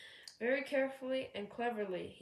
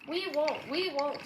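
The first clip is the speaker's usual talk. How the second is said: higher, louder mock scream; 6 semitones higher, 6 dB louder than usual. A narrator's reading. Trucks refusing to move, a mild mock scream. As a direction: shriek it like stubborn trucks. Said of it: "screamed the trucks".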